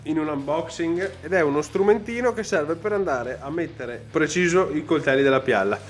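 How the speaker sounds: hiccuping while explaining; with hiccups. Real, not acted. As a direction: hiccup interrupting speech. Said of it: "scusatemi per questo singhiozzo".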